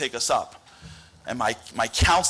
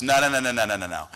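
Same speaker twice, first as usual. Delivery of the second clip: louder, rising indignant rant; exasperated friend pushing back; 2 semitones higher, 3 dB louder than usual. Retold or imitated. Friend demands an explanation, loud and exasperated. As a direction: lay into him, getting more worked up. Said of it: "He goes".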